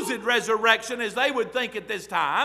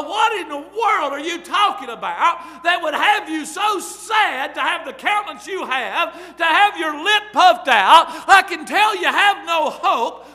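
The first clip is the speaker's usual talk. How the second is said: higher, louder teasing disbelief; incredulous loud questioning; 4 semitones higher, 5 dB louder than usual. Retold or imitated. Preacher as Jesus, loudly teasing the downcast disciples. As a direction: call them out for their long faces.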